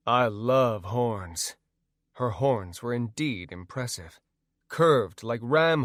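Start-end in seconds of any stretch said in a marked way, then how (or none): 0.1-1.6 cool and calm. Acted. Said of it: "but I kept my cool".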